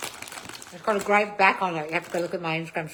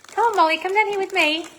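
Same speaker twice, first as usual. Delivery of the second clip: calling a pet; 11 semitones higher, 4 dB louder than usual. Real, not acted. Calling the dog over.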